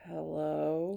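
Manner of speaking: drawn-out, growly phone greeting; slow growly caller. Shown as a demonstration. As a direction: growl the greeting slowly, like an eerie robot. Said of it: "here's the voice. If I was to impersonate".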